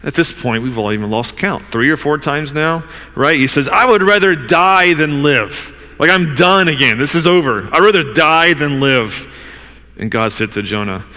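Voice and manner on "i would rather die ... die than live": retold despair, slightly raised and emphatic; despairing outburst. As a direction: act out someone declaring they are done. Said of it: "He despaired of life".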